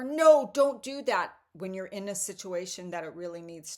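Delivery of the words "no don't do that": loud, high, slow no, don't do that; urgent warning. Retold or imitated. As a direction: stop them hard like an inner alarm.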